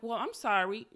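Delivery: even-toned polite apology; mildly customer-service apology; calm, collected. Retold or imitated. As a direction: keep it cute and composed. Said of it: "Calm, collective, keeping an even tone".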